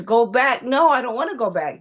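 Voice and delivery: mildly acted, pleading objection; child's protest. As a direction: protest like a reluctant little girl. Story: girl protests going back.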